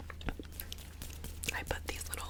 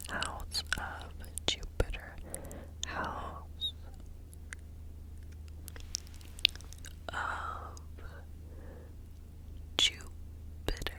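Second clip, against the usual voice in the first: whispered close into one ear; whisper in left ear; 4 dB quieter, much slower than usual. Acted. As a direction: lean to the left mic and whisper. ASMR repetition, mic side shifts.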